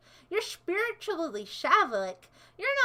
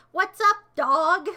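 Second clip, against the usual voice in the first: botched greeting; 3 semitones higher, 8 dB louder, slower than usual. Pretend. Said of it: "I said that wrong".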